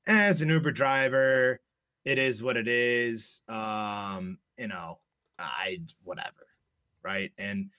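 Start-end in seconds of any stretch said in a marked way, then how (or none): 0.1-6.5 drawn-out, retold shrug-off; dismissive shrug. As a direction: trail down into a slow, indifferent whatever. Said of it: "I kinda shrugged it off".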